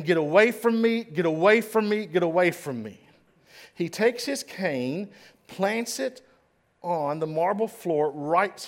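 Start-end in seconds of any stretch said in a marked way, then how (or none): 0.0-3.0 starts loud and high, fades toward the end; repeated shout. Retold or imitated. Governor on the floor waving people off, fading shout. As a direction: push them off, letting the force drain away. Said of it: "He keeps saying".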